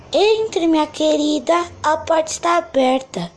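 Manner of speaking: put-on sweet old granny inviting in; grandma voice. Vovó fala à porta. (voz de vovozinha)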